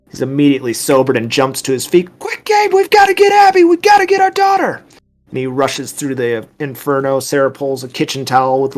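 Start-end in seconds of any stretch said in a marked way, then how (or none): 2.2-4.8 high, urgent shout; loud, high panicked yell; frantic screaming. Acted. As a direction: scream for help to save your child. Panicked mother in apartment fire.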